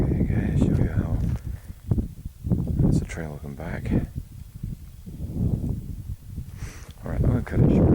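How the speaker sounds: talking loud against gusts; windy clifftop. Real, not acted. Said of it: "can't hear me over the wind".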